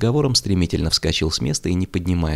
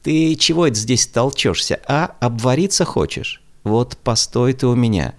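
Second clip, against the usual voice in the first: put-on sharp, loud scolding old maid; scolding shout; 7 semitones higher, 4 dB louder than usual. A narrator's reading. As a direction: lash out at the boy. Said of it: "неожиданно обрушилась на него".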